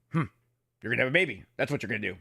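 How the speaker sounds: lightly imitated one-note deadpan; monotone Duke. Training officer answering a panicked trainee, lightly voiced monotone. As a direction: keep it even, without any excitement. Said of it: "monotone voice no matter what".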